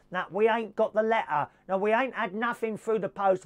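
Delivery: put-on rough working-class British accent; put-on tenant accent. Tenant denying getting an eviction letter, in a put-on working-class accent. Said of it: "got to do the accent".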